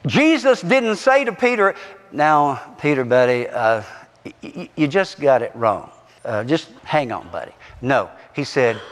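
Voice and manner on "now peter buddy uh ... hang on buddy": mealy-mouthed mock reassurance. Mock version of Jesus correcting Peter.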